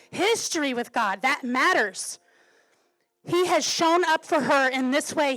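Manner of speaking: firm, insistent pulpit delivery; emphatic preaching. Real, not acted. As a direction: drive each point home to the congregation. Preaches on with force.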